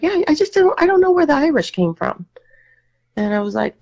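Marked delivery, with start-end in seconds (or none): 0.0-2.2 puzzled aunt voice. Retold or imitated. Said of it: "And she's like".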